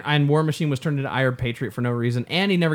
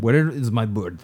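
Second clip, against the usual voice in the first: low, slow mock Russian; hammed-up Russian villain, pitched down; mock Russian accent; 4 semitones lower, slower than usual. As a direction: drawl it in a put-on Russian accent. Mimicking Russian film villain.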